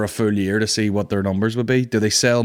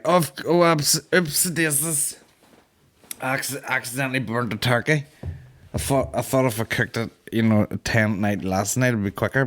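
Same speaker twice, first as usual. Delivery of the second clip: drunk relatives' mock voice; 3 semitones higher than usual. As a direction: play the sozzled cook owning up. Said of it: "So they were like".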